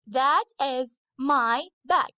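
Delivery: "That is my bag" said slowly, each word spaced out; slow model sentence. Shown as a demonstration. Teacher to her girls, a slow careful model sentence. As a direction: spell it out slowly so the class can copy. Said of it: "so I should use that".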